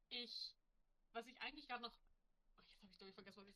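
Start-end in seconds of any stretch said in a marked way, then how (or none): 1.9-3.5 trailing off. Real, not acted. Forgets what to say.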